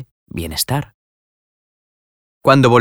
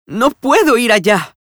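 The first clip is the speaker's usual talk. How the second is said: higher, crying exclamation; tearful cry; 3 dB louder than usual. A narrator's reading. Nela refusing to go to Aldeacorba, crying out. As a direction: blurt it through tears. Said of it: "exclamó llorando".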